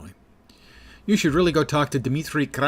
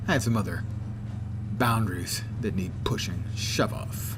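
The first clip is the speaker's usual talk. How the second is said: a lightly voiced smug crime boss, brisk and dismissive; lightly acted gangster brushing off a visitor; Golden Roller voice; 3 semitones higher, 4 dB louder than usual. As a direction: play the impatient kingpin, a touch of sneer.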